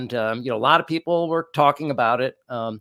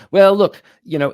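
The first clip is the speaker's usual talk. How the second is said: mimicking Vance, dismissive; 3 semitones higher, 9 dB louder than usual. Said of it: "He says".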